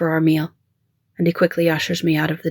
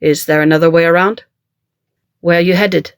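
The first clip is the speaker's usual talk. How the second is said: calling out; 6 dB louder than usual. A narrator's reading. Driver and roadside man calling.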